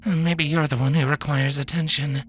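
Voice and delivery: wry laughing doctor; laughing off the broken robot. Acted.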